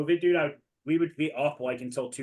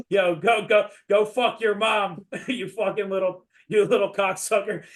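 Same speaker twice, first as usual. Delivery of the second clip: higher-pitched mock trash talk, laughing through it; retold cursing; 4 semitones higher than usual. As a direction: cuss out a kid, half laughing. Retold cursing at online kid.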